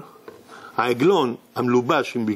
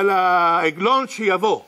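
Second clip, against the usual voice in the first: slow calling out; 3 semitones higher, much slower than usual. Acted. Rabbi calls out from court.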